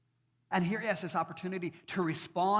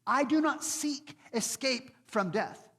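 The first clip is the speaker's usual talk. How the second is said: bold defiance; 7 semitones higher, 5 dB louder than usual. Retold or imitated. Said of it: "He says".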